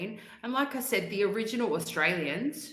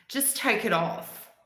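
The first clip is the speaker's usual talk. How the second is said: slow, higher-pitched mock Karen order; imitated Karen; 4 semitones higher, slower than usual. Woman telling a stranger to remove her hijab, imitated Karen. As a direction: imitate a pushy stranger, drawing it out. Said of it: "like, one of these women".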